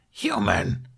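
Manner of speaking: high screeching cry; dragoness screech. A narrator's reading. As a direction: screech the word like an enraged dragon. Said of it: "the dragoness screeched".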